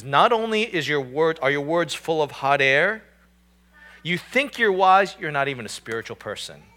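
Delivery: mocking. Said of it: "he's mocking again".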